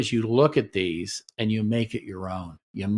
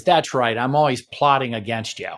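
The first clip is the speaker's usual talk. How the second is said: sarcastic comeback. Shown as a demonstration. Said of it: "the comeback is".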